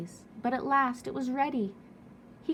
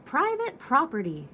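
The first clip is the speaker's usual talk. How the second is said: louder, higher grumpy yell; 5 semitones higher, 5 dB louder than usual. Acted. Cactus yelling at the tortoise to stay away. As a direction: bark it at the trespasser. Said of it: "yelled Hank".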